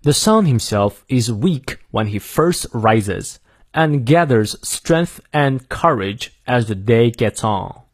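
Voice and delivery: slow, careful American English reading; American accent with R sounded after vowels; American pronunciation. Shown as a demonstration. Teacher reading the whole quote for learners, American pronunciation. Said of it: "美式发音念两遍".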